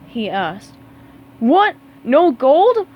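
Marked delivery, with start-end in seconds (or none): 1.4-2.9 high, loud dismayed outburst; shocked cry. Acted. Mister Krabs crying out at the idea of no gold. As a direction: gasp at losing gold. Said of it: "cried Mister Krabs".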